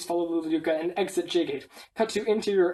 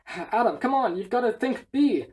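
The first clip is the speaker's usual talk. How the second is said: higher-pitched urging call; mild acted shout; 3 semitones higher than usual. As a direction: call out encouragement without full volume. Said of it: "Adam shouts".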